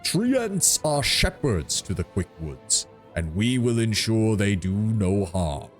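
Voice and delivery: slow, mildly offended tree giant; a hint of wounded pride, slowly; treant voice. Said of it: "a faint note of anger".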